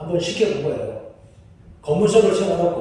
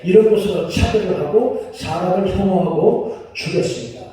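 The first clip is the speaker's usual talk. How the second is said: ordinary talk, nothing marked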